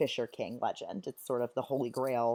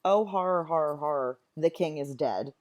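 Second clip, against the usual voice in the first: a louder, hammed-up cry of alarm; mock cry of horror; 5 dB louder than usual. Teacher showing how Macduff could just announce the murder, mock alarm. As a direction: blurt it out like a quick, mock-panicked announcement. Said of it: "Instead of just saying".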